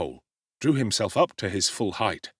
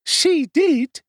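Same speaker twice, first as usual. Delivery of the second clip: very high, loud outraged matron; shrill scolding; 7 dB louder than usual. A narrator's reading. Mrs Sowerberry berating Oliver, high outraged scolding. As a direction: spit out the insult. Woman insists loudly.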